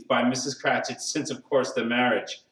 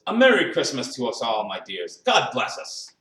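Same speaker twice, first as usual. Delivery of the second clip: raised voice falling on the endearment; a mildly lifted family toast; proposing a toast; 4 dB louder than usual. A narrator's reading. Bob toasts his family at Christmas, proposing warmly. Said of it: "Then Bob proposed".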